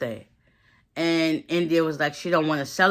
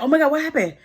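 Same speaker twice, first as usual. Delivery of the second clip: high, loud imitated panic; startled alarm; 9 semitones higher, 5 dB louder, much faster than usual. Imitating him woken by her panic, startled.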